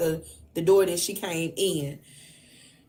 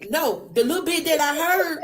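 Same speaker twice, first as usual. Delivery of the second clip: higher voice breaking into laughter; laughing retelling; 7 semitones higher than usual. Retold or imitated. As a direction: quote the juror while starting to crack up. Cracks up retelling juror's words.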